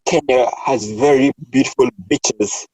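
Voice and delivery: BEACHES with a short I, like "bitches"; mispronounced beaches. Retold or imitated. Retelling a friend's slip to colleagues, "beaches" sounding like "bitches". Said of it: "wanna say Kenya had beautiful".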